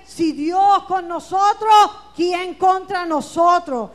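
loud, slow proclamation of scripture; proclaimed shout. Real, not acted. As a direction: shout the verse out to the church. Preacher proclaiming scripture loudly. (proclamación gritada y lenta)

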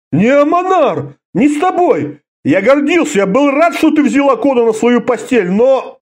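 a hint of heated protest; agitated old warrior. A narrator's reading. Orda protesting to Karela, agitated.

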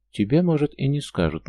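sulky faux-hurt comeback to a skeptic; mock offended. A narrator's reading. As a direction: play the offended girl, overdone. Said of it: "наигранно обиженно отозвалась девушка".

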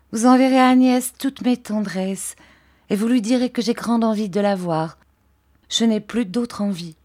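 earnest wish to see her friend; Dora's voice. Acted. Dora sends love to Agnès. (voix de Dora, tendre et plus aiguë)

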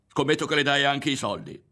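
high, loud accusing cry; sudden shout. A narrator's reading. Woman accusing Ario in a quarrel, sudden shout. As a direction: fling the accusation out abruptly. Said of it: "gli gridò a un tratto".

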